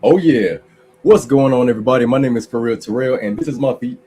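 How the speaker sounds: low, deep soothing intro. Acted. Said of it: "take it away with your soothing voice".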